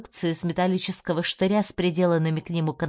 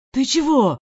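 high, loud frightened question; panicked, high and loud; alarmed cry; 7 semitones higher, 7 dB louder than usual. A narrator's reading. Dronov cries in alarm.

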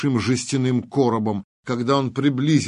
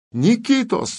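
shouting a name; 11 semitones higher than usual. Acted. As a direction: yell the name across the field. Calling out to Nikita.

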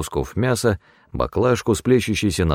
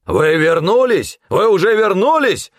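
yelling; 13 semitones higher, 4 dB louder than usual. A narrator's reading. Nikło yelling at the returned hunter, furious. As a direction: roar the question in his face. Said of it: "заорал Никло".

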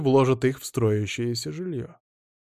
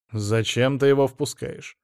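irritated. Acted. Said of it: "раздражённо спросил Стас".

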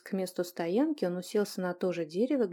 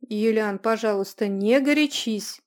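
pleading exclamation; 6 dB louder than usual. Acted. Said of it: "воскликнула Адель".

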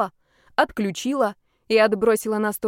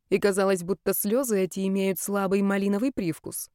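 ordinary delivery, nothing marked

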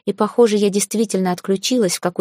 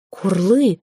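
breathed out. Acted. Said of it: "выдохнул мой странный собеседник".

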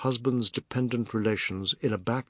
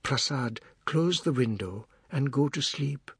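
gentle unalarmed; 3 semitones higher than usual. Acted. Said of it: "gentle, unalarmed voice said".

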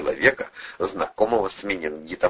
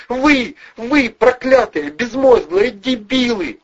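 high falsetto screech, loud and slow; falsetto yelling; 5 dB louder, slower than usual. A narrator's reading. Furious blonde berating Valeriy and Vovchik, high falsetto screaming. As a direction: scream insults in a shrill woman's falsetto. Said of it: "высоким фальцетом орала женщина".

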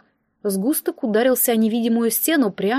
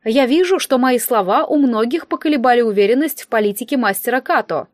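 smug villain speech; 3 dB louder than usual. Acted. Instructor taunts crowd.

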